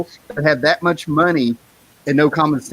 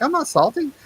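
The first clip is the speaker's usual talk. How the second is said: high, laughing protest; laughing denial; 12 semitones higher than usual. Retold or imitated. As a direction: laugh it off with the pitch way up. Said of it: "I'm like".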